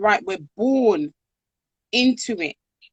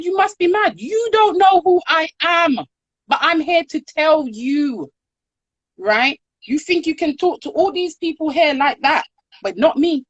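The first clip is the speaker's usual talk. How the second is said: higher, louder, fast imitation of an indignant woman; retold indignant outburst; 6 semitones higher, 3 dB louder than usual. Woman in H&M rounding on the rude white lady, imitated indignant outburst. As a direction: throw it back at her, affronted and quick. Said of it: "She said".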